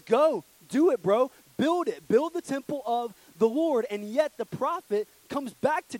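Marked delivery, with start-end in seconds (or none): 0.0-3.9 high, loud, slow hype; hyped-up encouragement. Retold or imitated. Nathan hypes up the king about building the temple, loud and high. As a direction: pump him up like a friend.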